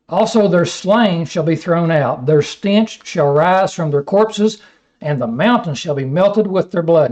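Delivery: measured, solemn Bible reading; scripture reading. Acted. Preacher reading Isaiah to his class, solemn reading. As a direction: read the prophecy with weight.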